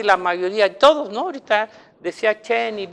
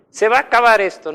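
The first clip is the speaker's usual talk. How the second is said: rápido y fuerte, con alarma fingida; alarma imitada; 4 semitones higher, 8 dB louder, faster than usual. Retold or imitated. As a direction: imita a un agorero apurado. (falsa alarma)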